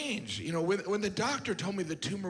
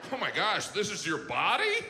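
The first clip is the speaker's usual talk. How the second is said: giggling doctor. Acted. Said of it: "a doctor giggling during an exam".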